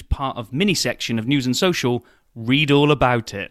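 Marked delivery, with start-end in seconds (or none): 2.3-3.5 newspaper seller's call. Pretend. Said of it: "kid holding out the newspaper".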